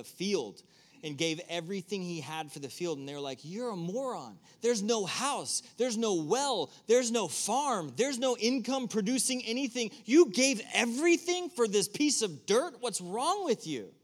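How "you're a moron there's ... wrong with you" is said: higher and louder, scornful disbelief; mocking friends. Friends mocking the man who bought the field, loud and scornful.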